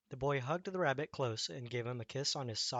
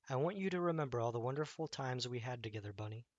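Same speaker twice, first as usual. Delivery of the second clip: sadly. Acted. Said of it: "said the boy sadly".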